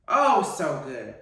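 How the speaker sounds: normal talking voice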